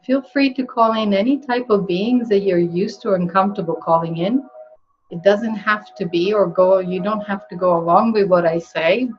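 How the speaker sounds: speaking up for the listeners. Real, not acted. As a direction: project clearly over a calm invitation. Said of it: "just speak a little louder".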